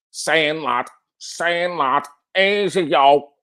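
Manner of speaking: thick Manc slang delivery; over-accentuated Manc accent. Acted. Streamer hamming up greetings to chat, exaggerated Manc accent. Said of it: "over-accentuation of the Manc accent".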